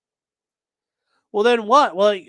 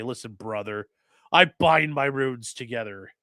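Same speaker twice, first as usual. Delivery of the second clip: much softer, lower take of the brother line; 7 semitones lower, 3 dB quieter than usual. Retold or imitated. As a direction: drop it low and soft, barely there. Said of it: "when you say it either way".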